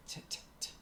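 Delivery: crisp isolated "t, t, t" said softly; demo of the T sound. Shown as a demonstration. Coach showing how she relearned her T's, softly. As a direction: tap out "t" on its own, quietly. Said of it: "other little tricks like your T's".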